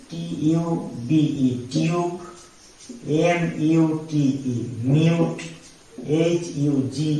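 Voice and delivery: "টিউব" spelled out slowly, then "iu" said; slow spelling. Shown as a demonstration. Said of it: "ইউ সাউন্ডই আসতে পারে". (ধীরে বানান করে "টিউব")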